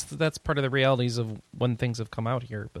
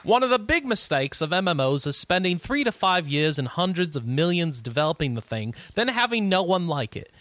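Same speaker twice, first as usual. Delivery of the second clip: terrible put-on British accent, louder; fake Lord British accent; 4 semitones higher, 4 dB louder than usual. Reading Lord British's interview quote to cohosts in a terrible British accent. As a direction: bust out a bad British accent, sounding almost Australian. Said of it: "I've got a terrible British accent".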